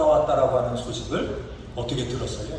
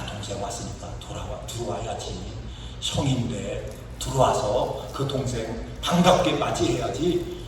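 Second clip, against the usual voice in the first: low, soft fatherly plea; softly acted father, pitched down; gentle coaxing; 6 semitones lower, 3 dB quieter than usual. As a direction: coax a sulking son quietly. Acting father coaxing the sulking son.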